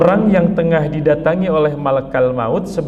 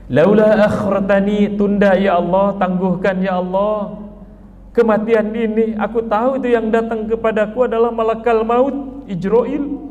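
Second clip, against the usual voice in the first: pleading sinner; 6 semitones higher than usual. Acted. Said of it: "Al-Muqtadir tadi ngomong".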